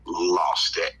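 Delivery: very slow, drawn-out storytelling; dramatic emphasis. Real, not acted. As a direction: stretch each word for dramatic weight. Dramatic high point of surprise story.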